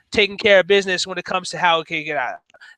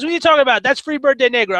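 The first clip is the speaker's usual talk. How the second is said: put-on old man voice; 6 semitones higher, much faster than usual. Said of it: "and he goes".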